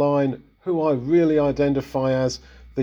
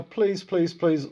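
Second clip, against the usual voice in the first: higher-pitched mock pleading; begging; 4 semitones higher, slower than usual. Sinner begging to be let off, pleading in a higher voice. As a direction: act out begging, voice lifted. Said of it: "and you're begging".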